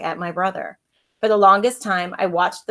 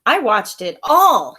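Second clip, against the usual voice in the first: put-on higher, slow, eager kid telling the news; excited; 6 semitones higher, 3 dB louder, slower than usual. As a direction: boast about watching it all. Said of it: "he said excitedly".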